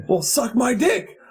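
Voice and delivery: high, slow, drawn-out jeer; mock taunt. Young driver challenges the man he argues with, taunting. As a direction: imitate a cocky kid taunting. Retold taunt in road-rage quarrel.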